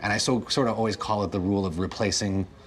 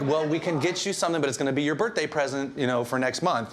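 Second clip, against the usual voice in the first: mom voice; 7 semitones higher than usual. Retold or imitated. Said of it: "She's like".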